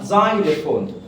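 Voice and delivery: زايلوفون starting with a z sound; correct pronunciation of زايلوفون. Shown as a demonstration. Teacher showing how xylophone is said, careful z-initial زايلوفون. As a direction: say زايلوفون as "ZY-le-fone". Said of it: "علشان ننطقها صح هنقولها".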